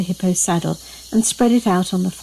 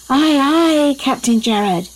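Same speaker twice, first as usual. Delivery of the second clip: crew replying; 6 semitones higher, slower than usual. A narrator's reading. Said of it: "everyone replied".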